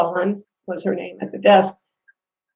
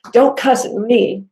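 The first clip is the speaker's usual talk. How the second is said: mild mock anger; 4 semitones higher, 4 dB louder, slower than usual. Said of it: "She got all mad".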